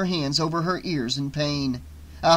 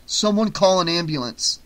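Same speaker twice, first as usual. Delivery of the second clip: urgent call for help, a bit louder; yell; 3 semitones higher, 4 dB louder than usual. Acted. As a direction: shout over the chaos for an ambulance. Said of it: "he yelled".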